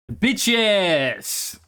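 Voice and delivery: a light French-accented "Bitches", lightly imitated; mock French lady drawing out "Bitches" into her phone. Retelling the lady on her phone, lightly imitated French accent. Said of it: "she says in a French accent".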